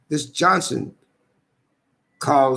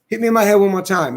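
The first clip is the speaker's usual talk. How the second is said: retold yell; 4 semitones higher, 4 dB louder than usual. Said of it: "I'm yelling on video".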